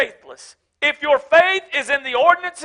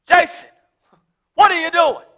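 God calling Jason; 4 semitones higher, 3 dB louder than usual. Retold or imitated. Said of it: "This is me".

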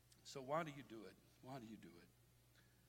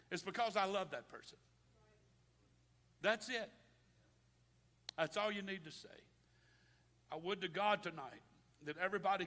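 raised, punchy preacher's voice; emphatic preaching; 6 semitones higher, 8 dB louder than usual. Real, not acted. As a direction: preach it to the congregation with force.

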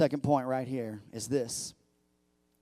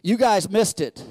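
loud, high, stretched-out preaching; preaching at full force; 7 semitones higher, 11 dB louder than usual. Real, not acted. Preacher pumping up the church, at full force. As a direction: build the congregation up, shouting the verse. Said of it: "I'm about to get pumped up right now".

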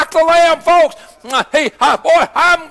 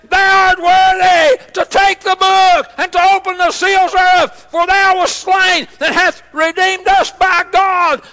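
proclaimed louder, ringing out; loud preaching read; 3 semitones higher than usual. Shown as a demonstration. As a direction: call the verse out to the whole church. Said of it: "And let me read that again".

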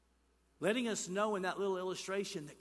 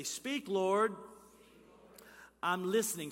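raised call; 3 semitones higher, 5 dB louder than usual. Shown as a demonstration. Models a line for congregation to repeat.

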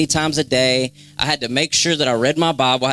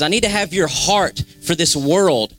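pleading prayer; 4 semitones higher than usual. Acted. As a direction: voice an earnest plea to God. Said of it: "Get alone with him and say".

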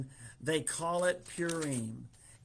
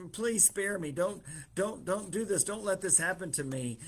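mildly acted pleading, pitched higher; begging; 5 semitones higher than usual. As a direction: plead for mercy in quick repeated bursts. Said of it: "he begs her".

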